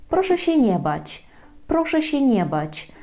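a touch of bedside reassurance; reassuring. Shown as a demonstration. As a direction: soothe a frightened patient. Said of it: "можна його заспокоїти".

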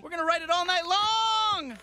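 belted out; party shout. Acted. Man rallying his date, shouting.

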